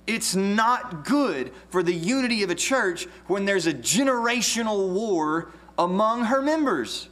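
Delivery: preacher building in fervour; earnest preaching. Real, not acted. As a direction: press the point home to the congregation.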